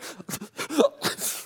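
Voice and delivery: voiceless, high mock sob; imitated crying. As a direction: gasp as if bursting into tears. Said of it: "they began to cry".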